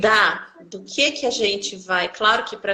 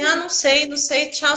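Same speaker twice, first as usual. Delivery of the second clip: higher-pitched, dismissive brush-off; offhand doctor imitation; 5 semitones higher than usual. Doctor to patient seeking answers, dismissive. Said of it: "Mas desse jeito, assim".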